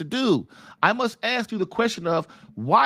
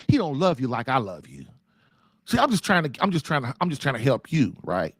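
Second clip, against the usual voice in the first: sly tempting devil; 5 semitones lower than usual. Retold or imitated. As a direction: sweet-talk her like a smooth devil, lightly voiced. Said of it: "He said, he said".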